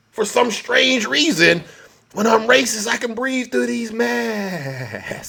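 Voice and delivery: slow, soft smug sigh; mock smug relief. Comedian voicing a racist mask wearer, slow smug relief. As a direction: savor the breath mockingly.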